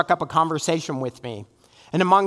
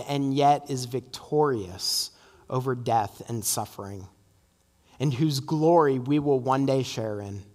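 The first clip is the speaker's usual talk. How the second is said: public prayer. Real, not acted. Leads closing prayer.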